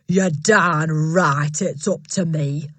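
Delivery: slow, heavy bellow. Acted. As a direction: drag it out triumphantly. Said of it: "Miss Trunchbull bellowed".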